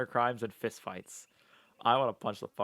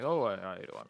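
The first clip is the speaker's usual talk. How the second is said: puffed-out mouth; 3 semitones lower than usual. Shown as a demonstration. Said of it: "puff out the bottom".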